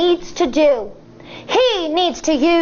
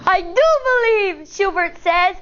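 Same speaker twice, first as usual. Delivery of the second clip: hopeful; 4 semitones higher than usual. Acted. Firefly character's joyful reply.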